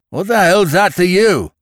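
high, loud furious challenge; ferocious growl. A narrator's reading. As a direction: round on him savagely. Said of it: "growled the farmer".

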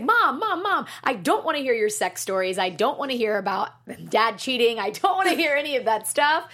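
put-on loud, high teenage whine; whiny teenage daughter. Inner teenager whining at mom, loud and high. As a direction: whine like a fed-up sixteen-year-old.

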